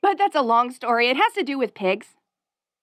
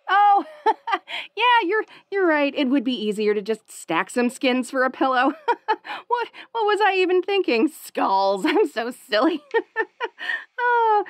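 bubbly; 3 semitones higher than usual. Acted. Wolf girl giggling, embarrassed.

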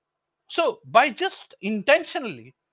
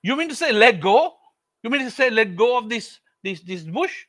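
disbelieving question; 3 semitones higher, 5 dB louder than usual. Acted. Jack incredulous.

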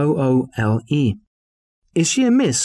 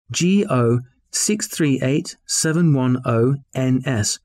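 slow dictation; slower than usual. Acted. Dictating an application number.

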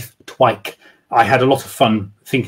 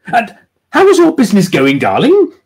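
higher, louder lady, quick and bright; eager woman's voice; eager change of subject; 10 semitones higher, 5 dB louder than usual. Acted. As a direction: hurry onto a new topic. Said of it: "eager to change this unpleasant subject".

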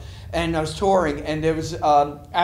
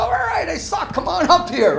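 very high shout, then louder; shouting back; 11 semitones higher, 3 dB louder than usual. Retold or imitated. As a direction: throw it right back at the heckler. Retold shouting back at heckler.

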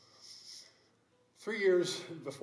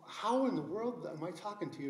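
raised pitch, mildly amazed question; recreating a baffled reaction, pitched up; retold astonishment; 5 semitones higher than usual. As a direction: ask it in acted disbelief. Astonished at hearing her on phone.

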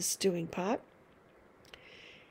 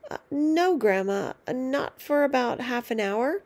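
calling back; 3 semitones higher than usual. Acted. George calls back to grandma.

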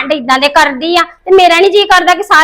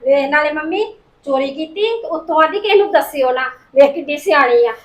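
softer, snide aside to mother; sarcastic aside; 6 dB quieter than usual. Acted. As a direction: mutter it behind her back.

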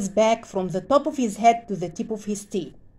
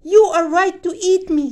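pleading squirrel; 7 semitones higher, 5 dB louder than usual. Acted.

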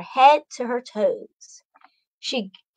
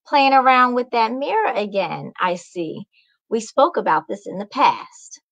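scolding mom. Acted. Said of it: "Mama yelled".

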